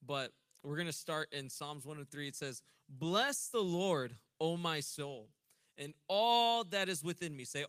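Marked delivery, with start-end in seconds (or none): 2.9-7.4 slow, loud, emphatic scripture reading; preaching scripture. Acted. Preacher reading Psalm to congregation, emphatic. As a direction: proclaim each phrase to the room.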